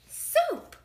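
high, loud punchline word; comic reveal. A narrator's reading. Narrator reveals what is in the pot, high. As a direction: pop it out high after suspense.

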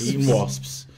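loud, appalled repeat of the words; horrified shout of disbelief; disgusted exclamation. Real, not acted. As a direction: blurt it out in disbelief. Reacting to eating wasps.

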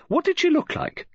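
high, urgent question; sudden eager anxiety for details; suddenly anxious. A narrator's reading. Novelist presses the detective for a description, anxious. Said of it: "suddenly anxious for clearer details".

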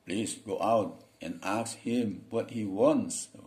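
slow, measured order; master's voice. Acted. Master tells the servant to check the gate, slow. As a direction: give the command slowly.

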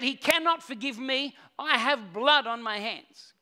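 slow, heavy, a touch of grief; tearful confession. Retold or imitated. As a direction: say it slowly as if holding back tears. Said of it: "with tears in his eyes and said".

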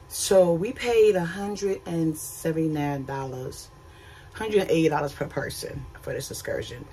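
talking through hiccups; hiccuping mid-sentence. Real, not acted. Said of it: "got the hiccups".

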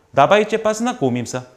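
나바이체 빠스나 고밈싸 said high and carefully, stress on 나바이체; model phrase for repeating. Shown as a demonstration. Teacher models the Russian greeting for students to repeat. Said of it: "요거 한번 따라해 볼게요".

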